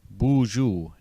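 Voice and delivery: "Bonjour" said as Ojibwe boozhoo, falling; "Bonjour" as boozhoo, stress on the first syllable; Ojibwe greeting. Shown as a demonstration. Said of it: "most common greetings you will hear".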